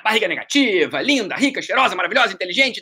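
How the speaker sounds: sarcastic list of compliments, laid on thick; mocking flattery. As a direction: tease her by overpraising. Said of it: "respondi com uma brincadeira".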